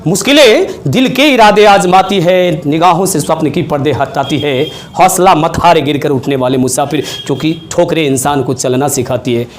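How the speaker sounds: measured, lilting Urdu verse delivery; shayari recitation. Shown as a demonstration. Teacher reciting a motivational couplet to students, in shayari style. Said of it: "अपने शायरी के अंदाज में".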